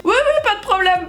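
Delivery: high, rushed eager yes; overeager yes. Retold or imitated. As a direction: sound falsely confident and eager. Fake-confident reply to instructor.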